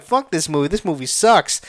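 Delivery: offhand, unimpressed put-down; dismissive. Retold or imitated. Viewer panning a movie before being moved by it, dismissive. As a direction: write it off in a level voice. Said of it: "Before, when I said".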